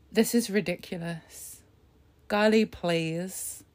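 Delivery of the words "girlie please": slow exasperated drawl. Real, not acted.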